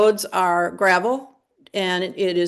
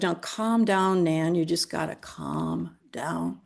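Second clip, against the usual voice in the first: slow, soothing, getting softer; calming; 6 dB quieter, slower than usual. Retold or imitated. Ruth calming her panicked sister Nan, slowly and softly. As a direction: talk her down gently.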